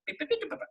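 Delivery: high, soft electronic beeps; imitated beeping. Shown as a demonstration. Voice actor mimicking a dial being tweaked, high soft beeping. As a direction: rattle off little high-pitched beeps.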